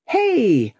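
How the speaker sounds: loud, high bark of a cry; brash shout; blatant cry. Acted. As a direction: call out brashly to the room. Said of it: "cried the blatant Stryver".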